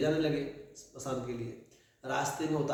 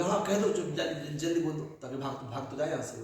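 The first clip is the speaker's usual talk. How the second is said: eager, half laughing, rushing the words; hurried urging; 2 semitones higher than usual. Acted. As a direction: push him to say it quickly. Wife urging hurried whisper. (जल्दी करने को उतावली आवाज़)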